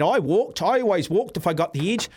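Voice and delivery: high, singsong mocking quote; scornful mimicry. Host mocking Gilchrist's claim that he walked, scornful high-pitched mimicry. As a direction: swoop up and down, ridiculing the claim.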